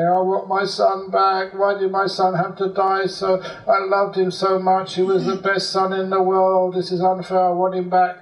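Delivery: high mock wail of a grieving father; mock crying. Grieving father crying at the cremation ground, mock wailing. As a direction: imitate a father wailing for his son.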